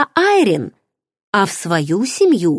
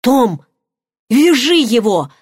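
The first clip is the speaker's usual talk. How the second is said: higher-pitched urgent call; mild yell; 4 semitones higher, 3 dB louder than usual. A narrator's reading. Woman on the grass calling Tom to seize attacker, mild yell. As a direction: call out an order, only moderately raised. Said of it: "заорала".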